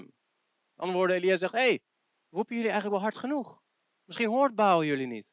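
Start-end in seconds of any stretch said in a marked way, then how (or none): 1.5-5.3 mocking. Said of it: "Hij begint te spotten".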